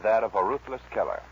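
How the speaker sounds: measured dramatic radio narration; old-time radio storyteller; story narration. Acted. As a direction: tell the outlaw's tale to the listeners. Narrates the Billy the Kid tale.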